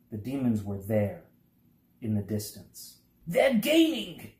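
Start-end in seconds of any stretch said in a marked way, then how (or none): 3.3-4.3 high, loud alarmed shout; shouted warning. A narrator's reading. Humbug to friends as demons gain, loud alarmed shout. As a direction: yell it as the demons close in. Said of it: "shouted the humbug".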